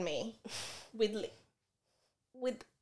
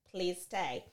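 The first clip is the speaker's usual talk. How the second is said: begging; 4 semitones lower, 8 dB quieter than usual. Retold or imitated. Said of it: "Now I'm begging".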